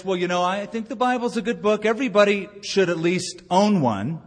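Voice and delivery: breezy, offhand mock believer; casual churchgoer. Pastor mocking a casual view of the Bible, breezy and quick. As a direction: toss it off like a lukewarm believer. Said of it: "Is your idea something like this".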